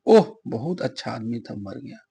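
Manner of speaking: low-pitched, mildly mournful demo; understated sorrow. Shown as a demonstration. Teacher giving an example of grief, understated sorrow. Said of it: "दुख जिसको बोलते".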